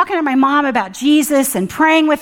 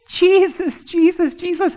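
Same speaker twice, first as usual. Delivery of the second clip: worshipful calling; 6 semitones higher than usual. Shown as a demonstration. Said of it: "I just can't contain myself".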